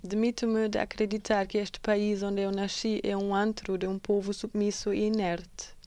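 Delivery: measured Portuguese poem reading; poem recitation. Acted. Presenter reciting an activist's poem to listeners, poem recitation. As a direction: read it out as spoken verse.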